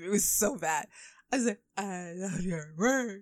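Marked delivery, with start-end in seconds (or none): 1.8-3.2 starstruck fan. Retold or imitated. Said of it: "I fangirled in front of him".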